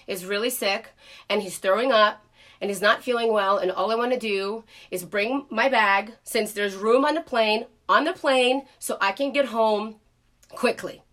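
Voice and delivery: a mother's soft appeal to the gate agent; softly pleading. Retold or imitated. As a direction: ask nicely, keeping the voice down. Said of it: "I said".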